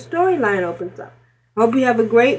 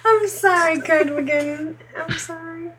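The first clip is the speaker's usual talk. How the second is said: laughing apology; 5 semitones higher than usual. Real, not acted.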